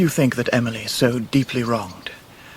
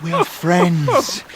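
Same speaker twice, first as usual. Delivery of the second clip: high call across the riverbank; 7 semitones higher, much slower than usual. Acted. David calling to Martha at the river's edge. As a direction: reach her with a high call.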